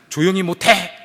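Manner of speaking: acted sudden order for silence; devil's angry shout. Devil turning on the complaining sinner, angry shout. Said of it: "이렇게 소리를 쳤다는 거예요".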